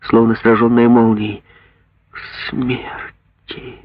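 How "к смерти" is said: very slow, very soft whisper; mother repeats the sentence in a slow whisper; slow horrified whisper. Acted. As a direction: repeat it numb with horror. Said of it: "медленно повторила она".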